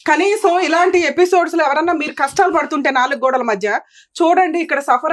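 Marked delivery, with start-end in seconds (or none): 0.1-2.9 indignant reproach. Real, not acted. Host shames parents over their crying child, indignant. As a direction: draw out the accusation, pitched high.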